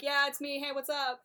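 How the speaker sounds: high, breezy greeting; casual. Retold or imitated. Imogen casually greeting her husband. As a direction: toss it off like nothing happened.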